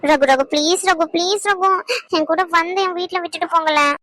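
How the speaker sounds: wheedling, stretched-out begging; pleading. Acted. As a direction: beg him to come along. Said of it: "இப்போ நீ கெஞ்சு".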